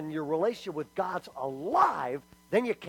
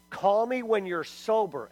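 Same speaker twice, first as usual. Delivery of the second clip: skeptical dad; 5 semitones higher than usual. Retold or imitated. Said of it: "His dad said".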